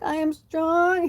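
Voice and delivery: put-on high, slow little girl echo. Dad's little girl repeating after him in a high child voice. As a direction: repeat it like a small brave child. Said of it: "She's like".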